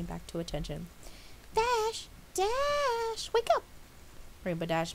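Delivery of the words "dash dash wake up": high, loud call to wake. A narrator's reading. Pinkie waking the delirious Dash, loud call. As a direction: shout her awake.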